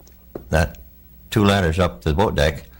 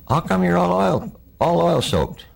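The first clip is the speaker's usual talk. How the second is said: much higher, baffled asking; high puzzled question; 12 semitones higher, slower than usual. Retold or imitated. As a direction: pitch it way up, puzzled. Corpsman voiced in retold scene.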